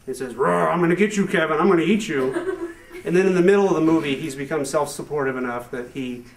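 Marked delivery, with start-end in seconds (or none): 0.4-2.7 monster heater. Acted. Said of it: "he thinks that the heater".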